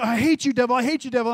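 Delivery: rising up against the devil; angry rebuke. Retold or imitated. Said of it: "So I just began to say".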